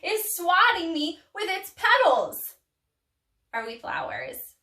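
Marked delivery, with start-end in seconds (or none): 0.0-2.6 lightly voiced bewildered bee, building to indignation; puzzled, then louder in mock alarm. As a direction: play a baffled little bee getting flustered. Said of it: "trying to figure out".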